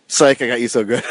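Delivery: loud, triumphant gloat; gloating shout. Real, not acted. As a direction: crow over the prank, loud. Gloating after prank.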